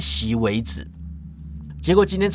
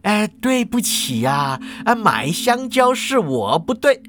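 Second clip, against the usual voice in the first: slow, mildly earnest apology; placating, with a touch of seriousness; smile dropped; 3 semitones higher than usual. Acted. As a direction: apologise carefully, dragging the words. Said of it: "收起笑容就说了".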